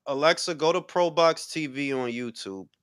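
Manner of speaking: soft, measured operator-style command. Shown as a demonstration. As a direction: address the voice assistant quietly, like an operator. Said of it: "you heard me put on the, the, the operator voice".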